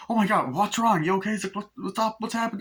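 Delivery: high-pitched imitated worry; mock alarm. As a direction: fire off frantic questions as alarmed friends. Acts friends alarmed by her panic.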